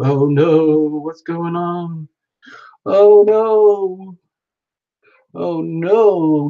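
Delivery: slow, drawn-out playful "oh no"; hammed-up, lightly voiced panic; mock freaking out. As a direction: wail in pretend dismay. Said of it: "And she's freaking out".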